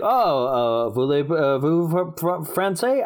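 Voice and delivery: put-on botched French accent, stumbling; bad French accent. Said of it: "I can't do it".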